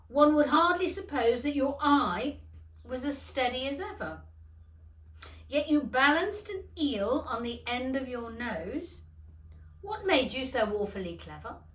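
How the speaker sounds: put-on loud, wondering young man; lightly voiced youth marvelling. A narrator's reading. Son marvelling at his old father, loud. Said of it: "said the youth".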